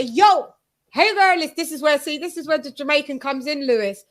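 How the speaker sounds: put-on breezy Jamaican accent greeting. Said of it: "I always sign in and sign out with, with my Jamaican accent".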